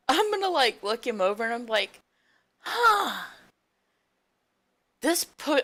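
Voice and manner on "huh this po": puzzled huh. Acted. Player voices puzzled character.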